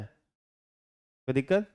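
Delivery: very slow, stretched कोई दिक्कत with a long rise; drawn-out question. Shown as a demonstration. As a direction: drag out कोई दिक्कत lazily, like a teasing teacher. Teacher drawing out the check question. (कोई दिक्कत को बहुत धीरे खींचकर पूछना)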